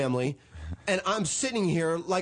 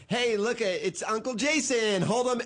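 high, breezy mock of a careless owner; airy carefree dog owner; 8 semitones higher than usual. Comic mocking a dog owner who dumps her puppy on him, high and breezy. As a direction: hand off the dog like it's nothing. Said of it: "You're like".

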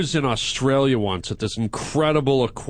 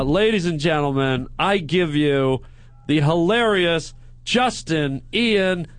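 show announcer introduction; slower than usual. Acted. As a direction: introduce the guest slowly, like an emcee. Introduces the next guest.

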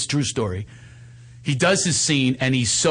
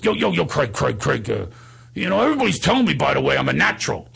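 Steiny. Retold or imitated. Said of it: "So he goes".

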